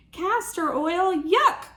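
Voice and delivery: hammed-up disgust; disgusted yuck. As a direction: spit out the word yuck. All cry in disgust.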